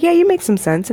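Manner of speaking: high-pitched retold reply from cousin; imitating cousin. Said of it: "She's like".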